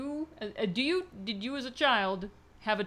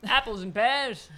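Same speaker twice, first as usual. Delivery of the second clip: put-on British accent; 4 dB louder, slower than usual. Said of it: "the accent".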